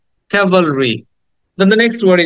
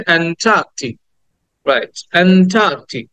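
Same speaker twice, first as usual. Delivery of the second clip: "অ্যান্টার্কটিক" with a stretched middle syllable; "অ্যান্টার্কটিক" as "aen-TAAK-tik", no r; long "taa" model. Shown as a demonstration. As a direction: lead the class in "অ্যান্টার্কটিক", holding "taa". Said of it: "বলো আমার সাথে".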